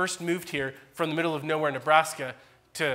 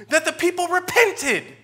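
forceful preaching; 12 semitones higher, 9 dB louder, slower than usual. Real, not acted. Preacher stressing Jonah's anger.

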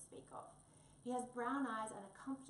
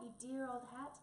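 excited; 2 semitones higher than usual. Acted. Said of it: "Wombat was excited".

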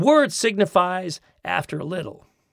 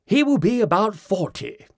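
English Briton; 5 semitones higher, 3 dB louder than usual. Retold or imitated. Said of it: "the Briton answers".

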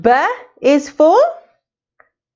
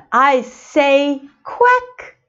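slow riddle voice; much slower than usual. Pretend. Duck riddle voiced slowly.

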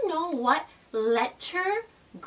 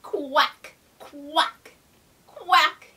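duck quacks; much slower than usual. Shown as a demonstration. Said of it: "what kind of sound a duck makes".

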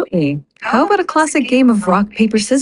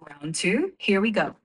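sportscaster countdown; 2 semitones lower, 5 dB quieter than usual. Pretend. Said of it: "sound like a sportscaster".

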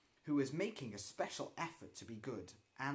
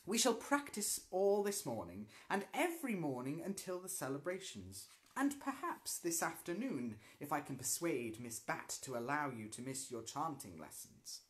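stern teacher. Acted. Teacher instructing the class.

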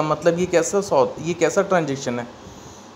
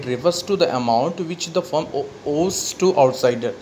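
slow dictation; much slower than usual. Acted. Teacher dictating a definition to the class, slowly.

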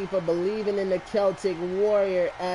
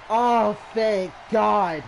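relieved sigh; much slower than usual. Real, not acted. Relief after the win.

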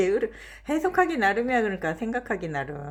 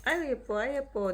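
talking to a dog; 6 semitones higher than usual. Real, not acted. Cooing at the pet.

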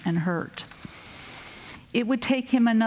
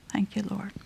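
hushed whispered thanks; whispering; 5 dB quieter than usual. Real, not acted. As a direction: breathe it out as a whisper. Whispered thanks after the hymn.

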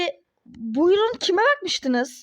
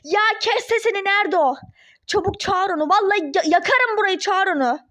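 furious, insistent orders; angry demand; 3 semitones higher than usual. Acted. Angry ex-wife demands the receptionist fetch him, furiously. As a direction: order staff around in a rage.

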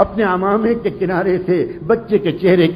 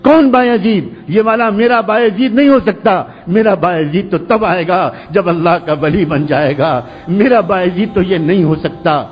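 strange tone. Acted. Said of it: "جواب آیا عجیب لہجے میں".

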